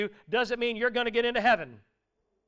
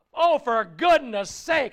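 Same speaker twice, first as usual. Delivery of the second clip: louder, slow fed-up groan of a phrase; exasperated sigh; 3 semitones higher, 6 dB louder, slower than usual. Retold or imitated. Jesus fed up with the disciples, slow exasperation. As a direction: let it out like a worn-out teacher. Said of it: "he's so perturbed with them".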